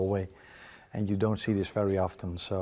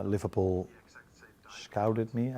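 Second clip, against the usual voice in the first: whispered aside; 3 dB quieter, slower than usual. Real, not acted. Manager hesitates over a word.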